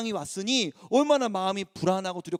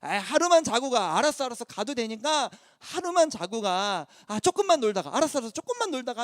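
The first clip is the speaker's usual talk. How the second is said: coaxing parent; 3 dB quieter than usual. Retold or imitated. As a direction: gently talk a crying child round. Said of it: "계속 꼬시는 거예요".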